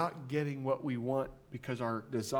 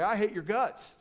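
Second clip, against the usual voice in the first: blunt New Yorker; 4 semitones higher than usual. Retold or imitated. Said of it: "they just look you in the eyeball and say".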